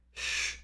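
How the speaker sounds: a quiet "shh"; shushing hiss. A narrator's reading. Group member to a chatting neighbour, shushing. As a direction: hush someone in the group. Someone hushes the whisperer.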